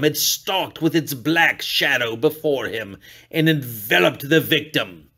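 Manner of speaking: usual speaking voice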